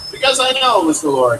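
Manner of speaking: a hint of a deep, well-modulated boom; deep resonant voice. Abraham answers Sarah in a hint of a deep resonant voice. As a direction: lightly roll out a resonant rumble. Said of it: "It was a deep, resonant voice, well modulated".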